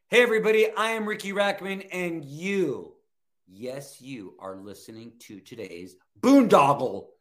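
booming hype-man promo, high and loud; wrestling promo. Shown as a demonstration. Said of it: "cut a promo I D for the show".

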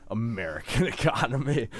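breaking up mid-phrase; amused laughing. Real, not acted. Laughing at own mock-serious point.

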